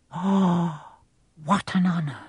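lightly voiced, moved old man; a hint of awed gratitude; touched old bartender. Bartender shaking Harry's hand, gently moved.

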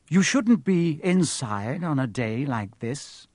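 slow, smiling sly Snape; twisted smile. Acted. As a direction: smile crookedly through it. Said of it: "with an odd twisted smile".

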